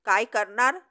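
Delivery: mild growl at a rival. Acted. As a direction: snarl the question back. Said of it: "जर्नल गुरकला".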